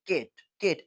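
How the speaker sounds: केट said in one unbroken beat; केट in one jerk; one-jerk syllable. Shown as a demonstration. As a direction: say केट as a single syllable, no break inside. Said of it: "ये one jerk में pronounce होता है".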